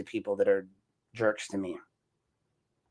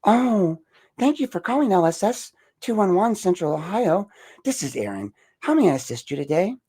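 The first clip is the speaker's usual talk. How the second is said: high, put-on call-center greeting; happy phone voice; 8 semitones higher, 3 dB louder than usual. Shown as a demonstration. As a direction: answer the helpline with forced cheer. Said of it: "my happy phone voice".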